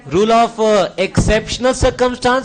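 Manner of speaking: stretched out word by word, very slow; slow drilled term. Shown as a demonstration. Teacher slowly drills the rule name for class, very slow. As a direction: spell out the key term slowly for students.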